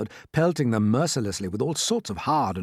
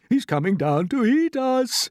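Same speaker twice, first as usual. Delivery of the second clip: high, wailing alarm; frightened wail; 12 semitones higher, 4 dB louder than usual. A narrator's reading. Old grasshopper warning they will be eaten, frightened wail. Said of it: "wailed the old green grasshopper".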